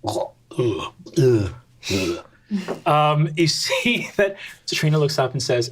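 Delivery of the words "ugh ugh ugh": disgusted groans. Acted. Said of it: "Safria goes".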